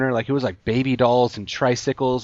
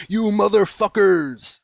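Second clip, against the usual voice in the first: imagined angry outburst; 8 semitones higher, 4 dB louder than usual. Acted. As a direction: storm up with a hammed-up curse. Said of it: "where he storms up and he's like".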